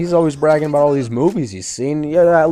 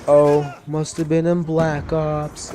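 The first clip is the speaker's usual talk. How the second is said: slow, drawn-out mock remark, pitched up; mocking imitation; 4 semitones higher, slower than usual. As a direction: drag it out like a snide classmate. Mocking classmate's snide answer.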